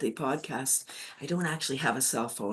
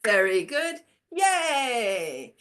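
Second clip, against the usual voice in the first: loud, higher cheer of very good, very good, yay; 5 semitones higher, 6 dB louder, much slower than usual. Shown as a demonstration. Teacher shows the cheer after the chant, excited cheering. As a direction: cheer the group on like a proud coach. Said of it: "And then we say".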